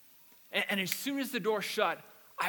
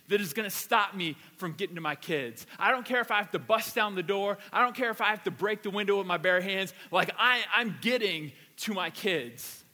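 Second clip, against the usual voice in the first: forceful, louder declaration; fierce passion; 4 dB louder than usual. Retold or imitated. Dad vowing to reach his locked-in kids, fiercely determined. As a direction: drive it home with unstoppable resolve. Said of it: "this passion and this love and this strength that says".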